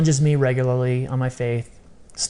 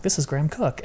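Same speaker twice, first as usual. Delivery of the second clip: put-on understated British accent, softer; 4 dB quieter, faster than usual. Graham Cooke calling out of the blue, mild British accent. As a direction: lightly imitate a British caller introducing himself. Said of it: "in his British accent".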